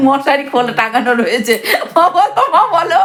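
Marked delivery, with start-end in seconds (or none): 2.0-3.0 coaxing mother, much higher, laughing; teasing mum to speak, laughing; laughing tease. Real, not acted. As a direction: giggle as you coax her to talk.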